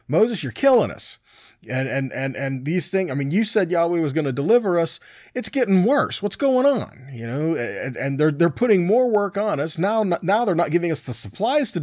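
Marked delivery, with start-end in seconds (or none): 0.1-7.1 higher, exasperated griping of the people; a fed-up crowd turns on Moses, mild mock distress; mock complaining Israelites. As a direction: play the whining crowd, lightly acted.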